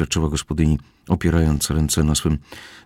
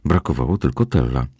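ordinary delivery, nothing marked

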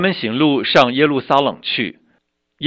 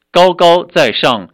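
raised, slow and louder, drawn out in praise; exultant proclamation; 7 semitones higher, 6 dB louder than usual. A narrator's reading. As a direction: lift it up like a joyful acclamation. Crowd shouting hosanna in text.

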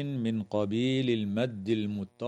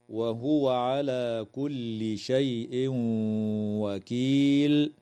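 Quranic recitation; slower than usual. Shown as a demonstration. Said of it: "قوله تعالى".

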